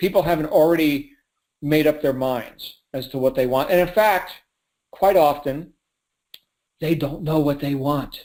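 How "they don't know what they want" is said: hushed secret-sharing delivery. Explaining that sales is a process: quiet voice, like a secret. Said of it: "I'm saying that with a quiet voice".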